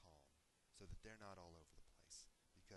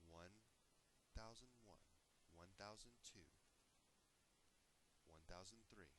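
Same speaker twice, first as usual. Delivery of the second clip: guided breathing count; 4 dB quieter than usual. Shown as a demonstration. Leading listeners round a breathing square, measured guiding count. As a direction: count them gently through each breath.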